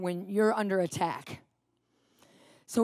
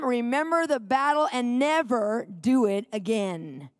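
preaching scripture reading. Acted. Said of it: "and it says this".

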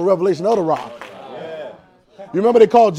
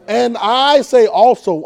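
drawn-out emphasis; 2 semitones higher, 3 dB louder, much slower than usual. Shown as a demonstration. Rereading scripture with drawn-out emphasis.

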